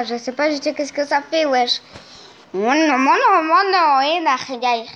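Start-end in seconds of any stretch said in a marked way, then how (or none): 2.5-4.0 a light attempt at a Russian accent, a bit louder; kid's rough Russian accent imitation; mock Russian accent. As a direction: playfully fake a Russian accent. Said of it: "Imagine que c'est comme ça, l'accent russe".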